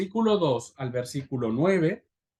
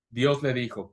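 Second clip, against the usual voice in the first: ordinary talk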